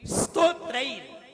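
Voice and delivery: "स्तोत्रैर" opening on a bare s; no vowel before the st of "स्तोत्रैर"; correct pronunciation. Shown as a demonstration. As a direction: hold the s into "स्तोत्रैर". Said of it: "ऐसे ही".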